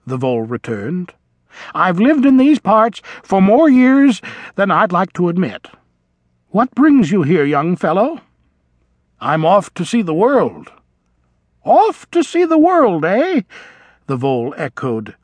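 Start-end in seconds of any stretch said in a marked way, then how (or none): 1.7-8.2 put-on higher, louder elderly vole; a kindly old creature, curious; chatty old vole. A narrator's reading. Old vole asking the young mouse, higher and kindly. 11.7-13.4 put-on much higher wistful old vole; yearning echo. A narrator's reading. Old vole repeating the young mouse's words, wistful and high. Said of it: "yearning and regret mingling in his voice".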